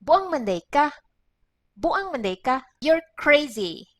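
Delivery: exasperated scold; annoyed scolding. Shown as a demonstration. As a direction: show you didn't like what they did. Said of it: "we normally say it like this".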